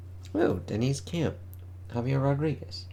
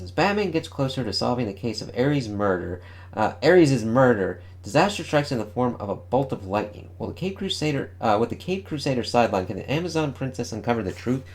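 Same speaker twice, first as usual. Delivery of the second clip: announcer read. Acted. Reads comic solicitation text.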